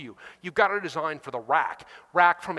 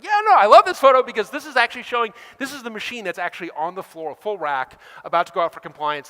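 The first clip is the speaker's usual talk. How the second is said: eager defense; 2 semitones higher, 7 dB louder than usual. Retold or imitated. Defending the photo to colleague.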